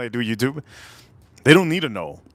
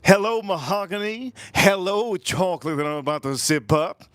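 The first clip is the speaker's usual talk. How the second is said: greeting a bear; 5 semitones higher than usual. Retold or imitated. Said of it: "You're like".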